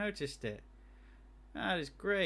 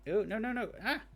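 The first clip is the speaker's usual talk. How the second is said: dismayed; 9 semitones higher, 3 dB louder than usual. Real, not acted. Typing mistake panic.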